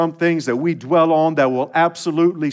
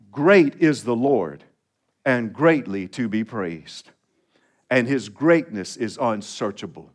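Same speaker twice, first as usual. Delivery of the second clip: scripture reading; 5 semitones lower than usual. Shown as a demonstration. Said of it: "Would you read that verse out loud with me?".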